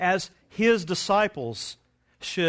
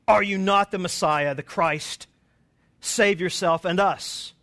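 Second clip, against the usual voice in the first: railing criminal; 2 semitones higher, 6 dB louder than usual. Retold or imitated. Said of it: "railed at him".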